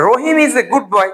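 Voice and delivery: slow, deliberate example sentence. Shown as a demonstration. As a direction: spell out the example slowly for students. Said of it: "আমি যদি বলি". (ধীরে ধীরে উদাহরণ বাক্য)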